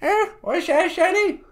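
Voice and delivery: put-on hard-of-hearing old woman; old lady voice. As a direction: croak like a deaf granny. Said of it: "She's really old and nasty".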